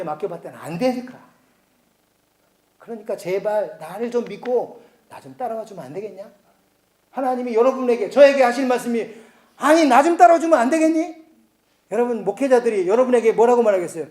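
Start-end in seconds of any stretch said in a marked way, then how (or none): 3.2-6.3 "좀" leaned on in a soft, begging voice; a quiet parental plea with "좀" stressed; soft pleading God. Acted. 9.6-11.2 "따라와" pushed higher and louder; an exasperated God raising the voice on "따라와"; louder exasperated plea. Acted.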